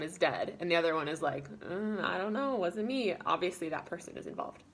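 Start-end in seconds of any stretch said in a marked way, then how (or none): 1.6-3.1 higher-pitched feigned cluelessness; mock-innocent denial. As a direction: play the obvious culprit denying it. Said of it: "any person could figure out".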